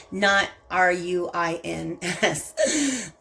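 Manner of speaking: laughing spell-out. Real, not acted. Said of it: "I'm just using my southern accent".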